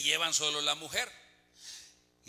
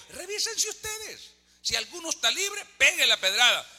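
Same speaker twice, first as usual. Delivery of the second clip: solemn Jesus; 9 semitones higher, 3 dB louder than usual. Acted. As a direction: lift it up and stretch it like a prophet. Jesus tells accusers to check themselves.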